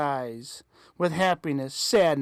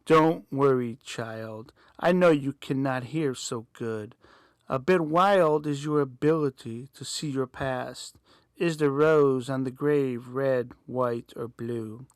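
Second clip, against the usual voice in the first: calm, lower voice through static; calm staticky voice; 3 semitones lower than usual. Acted. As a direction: soothe the child over a crackling line. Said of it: "In a calmer, slightly louder, more staticky voice".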